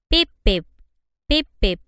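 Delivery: short, punchy warning beeps in the narrator's voice; imitated warning beeps. A narrator's reading. Robot's caution signals jamming, imitated beeps. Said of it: "jamming of caution signals".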